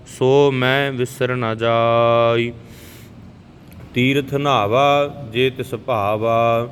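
slow, even devotional recitation of gurbani; scripture recitation. Shown as a demonstration. Teacher reciting Japji Sahib for the learners, calm and even. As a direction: recite each line steadily, like a prayer.

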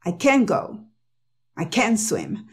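CAN'T as "ken" straight into the verb; no T in CAN before GO or SWIM; stressed "ken", T left out; dropped T. Shown as a demonstration. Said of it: "no pronuncia la T".

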